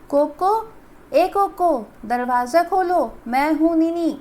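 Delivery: loud call through the door. Acted. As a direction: call your friend from outside. Friend calling at the door. (दरवाज़े पर दोस्त को ज़ोर से पुकारना)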